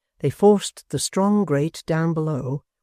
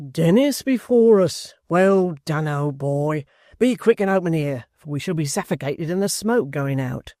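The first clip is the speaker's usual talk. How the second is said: eager rough voice calling out; rough rioter. Acted. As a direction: urge him on, hurried. Hugh voiced in story.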